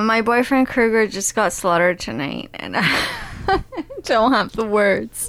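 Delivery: hammed-up grief with a laugh breaking in; mock tearing up. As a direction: pretend to mourn a boyfriend, barely keeping it up. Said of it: "She's tearing up, uh, just remembering".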